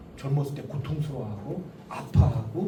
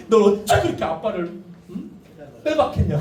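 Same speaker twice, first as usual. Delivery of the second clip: scolding wife; 2 semitones higher, 6 dB louder than usual. Retold or imitated. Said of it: "아내분들이 꼭 하는 말이".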